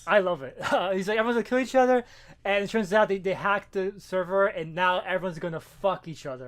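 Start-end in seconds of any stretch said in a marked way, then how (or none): 1.2-2.0 a higher, louder hammed-up villain announcement; mock villain. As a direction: announce it like a gleeful cartoon villain.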